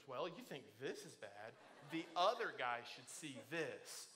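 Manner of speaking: low, hesitant mumble of the joke, words mixed up; botched joke. Retold or imitated. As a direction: flub the punchline, unsure of it. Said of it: "I didn't say it the way you told me".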